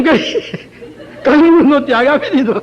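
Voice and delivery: હસવું રોકી ન શકતા, થોડું ઊંચું બોલે; રમૂજ પર હસતાં વાક્ય પૂરું કરો. Real, not acted. હસતાં હસતાં કથા કહે. (હસતાં હસતાં કહેવું)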